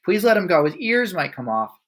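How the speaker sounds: put-on a teacher begging the headmistress to let the boy go; pleading cry. A narrator's reading. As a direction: beg her to stop. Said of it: "Miss Honey cried out".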